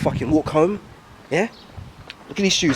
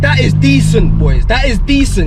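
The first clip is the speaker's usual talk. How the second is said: thrilled; 3 semitones higher, 5 dB louder than usual. Real, not acted. Thrilled after drive.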